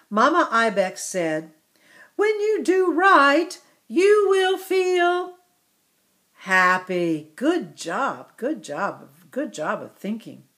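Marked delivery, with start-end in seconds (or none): 2.2-7.3 a hint of a gentle mother, high and louder; mild mother voice. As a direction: lightly voice Mama giving advice. Teacher voices Mama Ibex quote.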